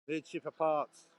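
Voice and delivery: slow, laughing pretend slogan; laughing mock protest. Vlogger joking outside the Honda garage, laughing mock protest. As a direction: giggle through a joke protest line. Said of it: "I'll go start a protest outside".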